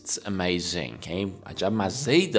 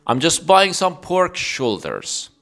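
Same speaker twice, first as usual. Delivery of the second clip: slow clear model; 7 semitones higher, 5 dB louder, much slower than usual. Shown as a demonstration.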